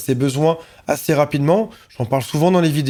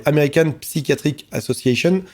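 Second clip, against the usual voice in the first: attempted English accent on the name; French speaker trying an English pronunciation. Real, not acted. Naming the book's American authors, attempted English accent. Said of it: "Admirez mon accent anglais".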